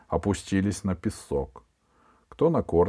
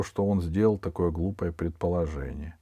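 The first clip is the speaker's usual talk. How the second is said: ordinary delivery, nothing marked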